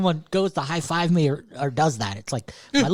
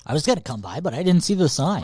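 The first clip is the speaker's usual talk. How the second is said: mock excuse; 5 dB louder than usual. Repeats the mock customer excuse.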